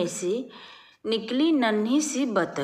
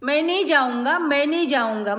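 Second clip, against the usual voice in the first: mild frightened refusal; 3 semitones higher, faster than usual. Acted. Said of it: "क्या कह रहा है डर के मारे".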